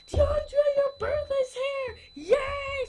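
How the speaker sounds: high, loud birthday cheer; excited mom. Retold or imitated. Boy imitating his mom on his birthday, excited high cheer. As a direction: imitate a thrilled mother announcing the big day. Voicing mom's birthday morning announcement.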